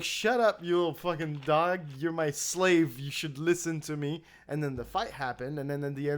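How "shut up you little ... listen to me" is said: mock bossy. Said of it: "the other one was like".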